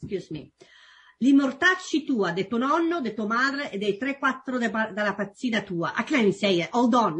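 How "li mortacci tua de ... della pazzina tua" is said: Roman dialect insult, stumbling; Roman accent. Shown as a demonstration. Guest tries a Roman insult for the host in Roman accent. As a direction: spit out a Roman curse. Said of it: "I try to do your, uh, accent".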